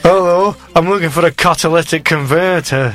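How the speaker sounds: imitating a customer with a Northampton accent. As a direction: put on a light Northampton accent. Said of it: "That was a pretty good Northampton accent".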